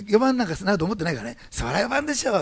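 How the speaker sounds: high and loud, half laughing at himself; blurted answer. Retold or imitated. Shinjo replaying his bold reply, high and loud. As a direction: say it as if it slipped out. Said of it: "思わず言ったんですよ".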